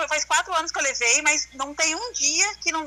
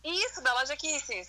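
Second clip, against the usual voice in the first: over the phone; 7 dB quieter than usual. Real, not acted. Estão ouvindo?.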